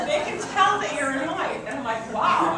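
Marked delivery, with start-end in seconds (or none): 0.1-1.6 laughing. Retold or imitated. Laughing retelling of her answer. 2.1-2.6 loud, high mock gasp of surprise; a big amazed wow, acted out; surprised wow. Telling the class how she reacted, a loud surprised wow. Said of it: "I was surprised".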